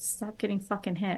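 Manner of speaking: whispering. Casting a healing spell in a game, the speaker's character is whispering to a hurt companion. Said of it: "it's gonna whisper a few things like".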